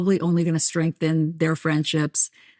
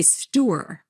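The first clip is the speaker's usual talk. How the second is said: Jersey "store" in two syllables; New Jersey drawn-out "store"; New Jersey accent. Shown as a demonstration. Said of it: "from New Jersey, you say".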